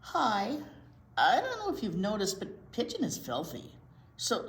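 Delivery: lightly voiced cheeky pigeon; a hint of a cheeky bird; pigeon character.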